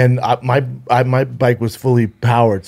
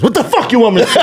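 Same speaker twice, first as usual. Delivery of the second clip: much higher, laughing mock snap; mock angry friend; 11 semitones higher, faster than usual. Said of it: "And she goes".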